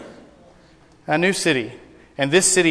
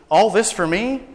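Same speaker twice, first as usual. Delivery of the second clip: delighted surprise, pitched higher; amazed accountant; 5 semitones higher than usual. Retold or imitated. Accountant amazed at his parade, higher delighted surprise. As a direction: sound bowled over by the welcome.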